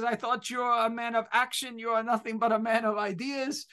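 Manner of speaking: mild imitation of an older German professor's accent. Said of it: "has a very heavy German accent".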